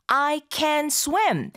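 very slow, careful English model; teacher sounding out each word slowly; slow model reading. Shown as a demonstration. Teacher models the sentence for learners, slow and careful. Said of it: "발음할 때".

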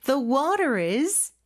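slow demo, "water is" joined through the R; "The water is" with no break after water; linked R. Shown as a demonstration. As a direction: link "water" straight into "is" with an R. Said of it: "R 발음으로 연음해 주시고요".

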